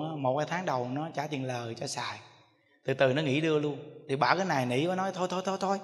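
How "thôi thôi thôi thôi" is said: pleading, then pushing louder and faster; an old mother begging her kids, getting louder. Retold or imitated. Old mother begging her children for her savings, rising to loud and fast.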